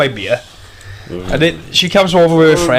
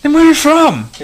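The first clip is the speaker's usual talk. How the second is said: high, eager imitation of an American tourist; mock American girl; 11 semitones higher than usual. Imitating the American girl guessing his country, high and eager. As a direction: pitch it right up like the guessing tourist. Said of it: "And she went".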